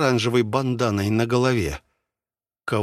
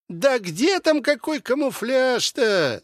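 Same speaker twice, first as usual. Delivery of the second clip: high, slow, unbothered drawl; lazy reply; 12 semitones higher, slower than usual. A narrator's reading. Man behind the wall lazily brushing off the camouflage claim. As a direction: toss it off lazily. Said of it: "лениво ответил человек из-за стенки".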